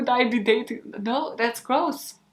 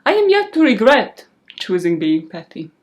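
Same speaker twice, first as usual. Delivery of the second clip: mock serious; 7 dB louder than usual. Shown as a demonstration. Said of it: "with a serious expression on her face".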